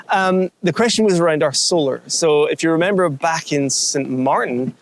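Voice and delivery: talking while crunching crisps; munching crisps. Real, not acted. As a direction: speak through a mouthful of crisps. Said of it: "whilst munching crisps".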